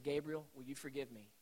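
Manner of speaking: soft, low plea for forgiveness; retold father, humbled and gentle; quietly choked-up asking; tearful apology. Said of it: "got a lump in my throat".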